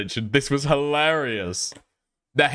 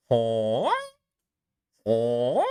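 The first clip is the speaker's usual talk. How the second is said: goose honk; 2 semitones lower than usual. Shown as a demonstration. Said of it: "She gives like that".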